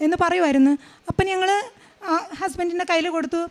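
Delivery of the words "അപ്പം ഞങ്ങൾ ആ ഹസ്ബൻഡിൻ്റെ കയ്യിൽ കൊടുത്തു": real tears breaking through the words. Real, not acted. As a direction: let the crying catch each phrase. Tearful testimony about surgery day. (കരഞ്ഞുകൊണ്ട് പതുക്കെ)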